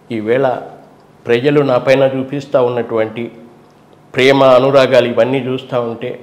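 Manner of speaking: soft-spoken leader thanking the people; Jagan impression, simple. Mimicking Jagan's calm speech to the people, low and soft. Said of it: "ఇట్లా ఉంటుంది సింపుల్గా".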